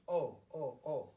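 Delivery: "O" repeated loudly as in English; Korean O sound. Shown as a demonstration. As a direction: model three separate, emphatic "O" vowels. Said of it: "just as in the English language".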